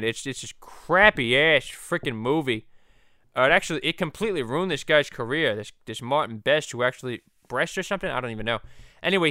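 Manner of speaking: lightly voiced cartoon dad with New England accent; a hint of a rambling cartoon know-it-all; Peter Griffin. Peter giving a brief movie history, cartoon dad voice. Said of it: "the Stewie and Peter podcast".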